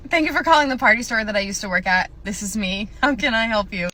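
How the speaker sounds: loud, lightly put-on customer-service voice; store phone greeting. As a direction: answer the phone as store staff. Acted phone greeting as store employee.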